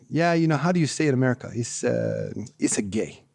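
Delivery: imitated Spanish-accented English, quick start then hesitant; Miguel's accent. Storyteller voicing the player's punchline, in an imitated Spanish accent. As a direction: mimic his accent, searching for the word. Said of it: "Miguel, in his accent".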